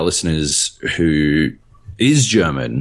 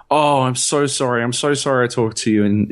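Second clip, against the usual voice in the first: retold gushing apology, higher pitched; apologetic; 5 semitones higher than usual. Chemist to a foreign customer she spoke German to, apologetic. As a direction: imitate someone apologizing profusely. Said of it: "She was apologizing constantly".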